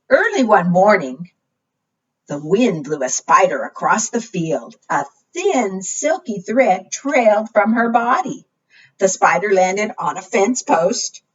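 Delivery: measured, clearly enunciated read-aloud; storybook narration. A narrator's reading. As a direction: read to small children, word by word. Reads picture book to children.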